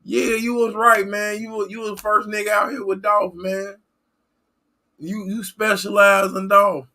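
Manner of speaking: overjoyed viewer greeting his favorite streamer; gushing mock fan. A streamer playing a fan who missed his channel, high and gushing. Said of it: "y'all will be coming like".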